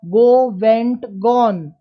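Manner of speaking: verb forms chanted out word by word; rote recitation. Retold or imitated. Teacher recalling school grammar drills, firm rote recital. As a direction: drill them like a memorised school list. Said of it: "रट्टा मरवाया जाता था".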